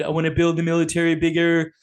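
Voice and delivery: a hint of Trump bragging about himself; Trump impression. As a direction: brag like a salesman president. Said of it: "Trump said".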